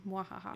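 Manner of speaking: mock villain laugh. Co-host plays villain back on top, mock villain laugh. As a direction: toss off a token gloating laugh.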